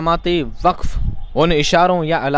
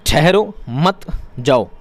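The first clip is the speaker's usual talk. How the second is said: sentence read out; slower than usual. Shown as a demonstration. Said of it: "फिर भी repeat करता हूँ".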